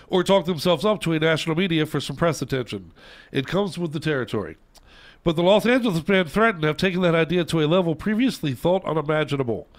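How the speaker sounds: reading aloud. Real, not acted. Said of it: "read it word for word".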